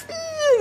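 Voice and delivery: high, strained grunt of annoyance; mock squeal of pent-up irritation; exasperated "ih". Mother fed up with a wailing child, acted exasperation. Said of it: "kan kesel kita".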